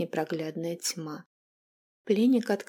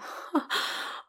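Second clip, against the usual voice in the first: quiet airy insane cackle; mad cackle; 6 dB quieter than usual. Acted. Vampire queen cackling madly at the captive. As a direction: laugh like a madwoman under her breath. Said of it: "она разразилась безумным смехом".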